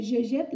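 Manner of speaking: "jette" with open è; quick, clear "jette", vowel as in "est". Shown as a demonstration. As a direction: contrast demo of "jette" with open E. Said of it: "on disait".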